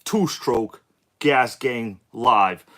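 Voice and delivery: hyped streamer intro, drawn out; slow, stretched livestream welcome; YouTube voice. Real, not acted. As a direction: welcome the chat like a big show host. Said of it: "I don't know why I'm doing this YouTube voice".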